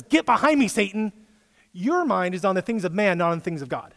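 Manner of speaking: high, loud stern rebuke; harsh rebuke. Acted. Jesus rebukes Peter, loud and harsh. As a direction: come down hard on him, loud and high. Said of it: "That was a harsh rebuke".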